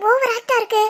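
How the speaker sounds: soft, conspiratorial undertone; hushed aside. Acted. Friends scheming while Ram watches them, hushed aside. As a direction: keep it down so he can't overhear.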